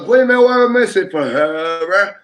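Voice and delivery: slow, drawn-out Rasta quote; unhurried mock Rasta preacher. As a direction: lean into a slow Rastafarian drawl. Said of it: "he be like".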